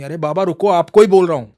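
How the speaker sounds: put-on boy insists he is talking to him; insistent call. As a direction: make him turn around. Third call to the old man.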